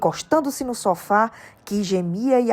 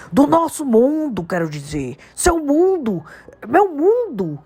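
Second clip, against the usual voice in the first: big, emphatic giant's voice, building; giant Hagrid; 9 semitones higher, 4 dB louder, slower than usual. A narrator's reading. Hagrid telling Harry about his world, emphatic. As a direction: Hagrid explaining, more worked up each phrase.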